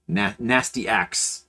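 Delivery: Nasty Axe slowly, as two separate words; mispronunciation example. Shown as a demonstration. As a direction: draw out Nasty Axe as "nasty" plus "axe". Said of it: "It's definitely not that".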